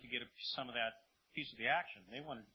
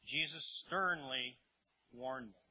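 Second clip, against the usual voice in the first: STERNLY stretched out slowly; emphatic "sternly"; 3 dB louder, slower than usual. Shown as a demonstration. Preacher points out the warning's force, emphatic. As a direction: draw out "sternly", then drop on "warned them". Stresses the key word sternly.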